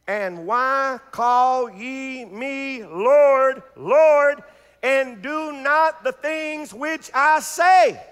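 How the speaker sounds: drawn-out, solemn read; slow scripture reading. Real, not acted. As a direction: read the verse slowly, word by word. Congregation reads scripture along.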